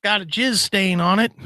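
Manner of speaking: high mock caller voice; imagined caller Tim. Host imitates Tim describing his item for sale, mock caller. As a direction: pitch up as a deadpan small-ads seller. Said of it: "I can hear Tim calling up".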